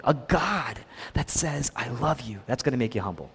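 soft, low "I love you"; humbling. Shown as a demonstration. Preacher on a God who humbles you, soft "I love you". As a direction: say "I love you" gently, dropped in volume. Humbling take of repeated phrase.

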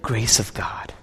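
slow reverent whisper. Acted. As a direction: breathe it out slowly, in awe. Preacher drops to reverent hush.

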